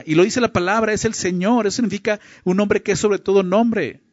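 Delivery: high-pitched, emphatic proclamation; daring, exclaimed statement of faith; bold declaration. Real, not acted. Keeps proclaiming with raised pitch.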